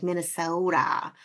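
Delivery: put-on Minnesota accent, drawn-out "Minnesota"; mimicked Minnesota accent. Host imitating outsiders mocking her home state, mock Minnesota accent. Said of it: "people who aren't from around here will say".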